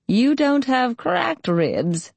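put-on slow, high old-woman voice; old quavering voice. A narrator's reading. Old healer corrects her patient about his ribs, quavering. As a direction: draw it out as a quavery crone. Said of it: "quavering voice said".

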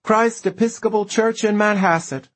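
high, strained croak. A narrator's reading.

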